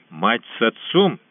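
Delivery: stubborn toothless lisp. Acted. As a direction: lisp it stubbornly, teeth missing. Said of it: "упрямо прошепелявил щенок".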